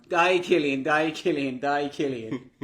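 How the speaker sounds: mock cheering yell, fading with each repeat; lively retold chant, trailing down; retold shouting. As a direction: imitate someone shouting encouragement, easing off. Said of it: "This book shouting".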